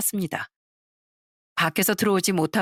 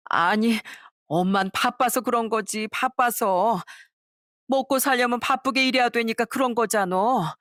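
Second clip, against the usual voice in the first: 변명하는 시어머니; 4 semitones higher than usual. Acted.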